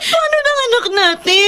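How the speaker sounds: put-on a frightened mother crying out for her sick child; wife's sobbing shout about their sick son; crying in panic. Mother panics over feverish child.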